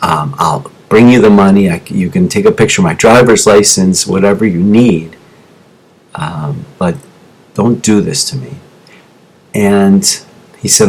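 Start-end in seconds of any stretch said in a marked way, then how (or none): 0.0-8.6 low, subdued plea retold from memory; retold begging. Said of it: "begging him".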